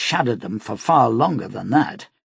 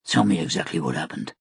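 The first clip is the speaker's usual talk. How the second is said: urgent; 6 semitones lower, 4 dB quieter, faster than usual. A narrator's reading. Urgent command to child.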